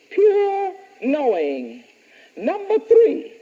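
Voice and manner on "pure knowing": slow repeat, "Pure" lighter; slow dictation repeat, "Pure" lighter; dictating. Shown as a demonstration. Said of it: "Number two".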